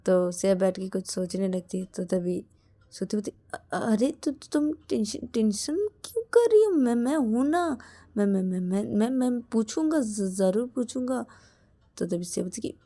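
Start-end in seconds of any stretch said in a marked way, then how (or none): 3.5-11.2 high, nervous stammer; stammering reassurance. Acted. Shruti stammers to calm tense Shreya, nervous. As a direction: stutter nervously while soothing.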